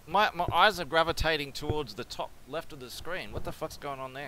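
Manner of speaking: talking around a cigar in mouth; words round a cigar in mouth. Real, not acted. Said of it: "I've got a cigar in my mouth".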